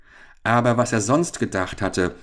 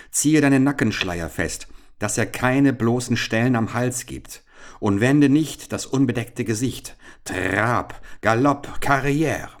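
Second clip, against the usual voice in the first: raised, firm instructions; urgent commands; 5 semitones higher than usual. Acted. Richard to Georg as pursuers close in, urgent. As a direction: order it out, building to a higher last call.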